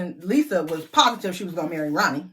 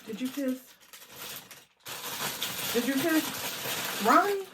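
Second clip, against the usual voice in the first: higher, sing-song, drawn out; teasing; 6 semitones higher, 6 dB quieter, slower than usual. Real, not acted. Teasing cousin Lisa about Ronnie, sing-song. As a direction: tease her cousin slowly.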